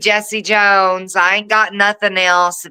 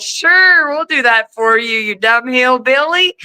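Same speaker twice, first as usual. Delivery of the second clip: mock drive-thru worker; 3 semitones higher than usual. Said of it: "they were like".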